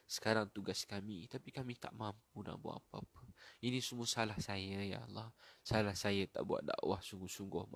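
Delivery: subdued pleading, trailing off softly; prayer of confession. Real, not acted. Preacher confesses blame and prays for loved ones, subdued pleading.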